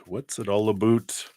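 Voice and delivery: joking Canadian accent, "about" said like "aboot"; lightly mock Canadian, "about" rising and rounded like "aboot"; playful Canadian accent on "about". Shown as a demonstration. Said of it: "That's my Canadian accent".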